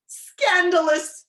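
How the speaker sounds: high, drawn-out outraged shout. A narrator's reading. King outraged at the dinner custom, loud shout. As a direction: shout it slowly, scandalized. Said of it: "shouted the king".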